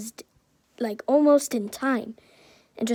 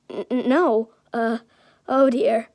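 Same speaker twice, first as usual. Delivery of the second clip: nervous stammer; 3 dB louder than usual. Acted. All Might frightened.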